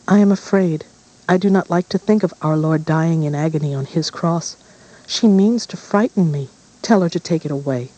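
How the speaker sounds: put-on frightened girl pleading. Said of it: "She ran to her father and whispered".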